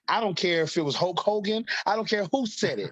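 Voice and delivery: imitating an insistent mother, pitch rising; mock indignation. Mom rejects son's excuse about the kick's name, indignant. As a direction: dismiss the excuse, mildly indignant.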